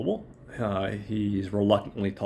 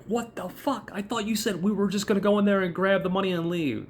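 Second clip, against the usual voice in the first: retold panic, pitched much higher and rushed; freaking out; 9 semitones higher than usual. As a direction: imitate someone freaking out in a high, hurried voice. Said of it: "Chip is, like, freaking out".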